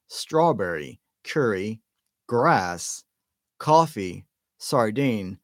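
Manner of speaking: ordinary delivery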